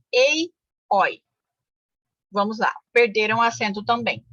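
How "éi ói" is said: "Ei, oi" with wide-open vowels, as éi, ói; raised pitch on "Ei", then an open "oi"; open diphthongs. Shown as a demonstration. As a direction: sound out "Ei, oi" as separate open diphthongs. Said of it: "Ditongos abertos".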